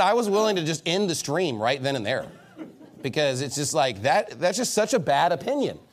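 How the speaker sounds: chuckling through the words; laughing. Real, not acted. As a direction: laugh at the silly fries opinion. Joking about In-N-Out fries.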